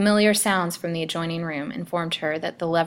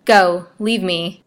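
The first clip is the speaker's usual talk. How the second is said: slow, loud, desperate command; drawn-out, emphatic entreaty; gasped plea; 8 dB louder, slower than usual. A narrator's reading. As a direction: order him out in desperation. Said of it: "she gasped".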